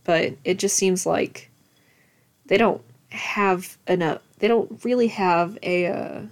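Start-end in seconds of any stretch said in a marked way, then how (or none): 2.5-6.2 tipsy, stumbling over the words. Real, not acted. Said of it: "a little bit tipsy".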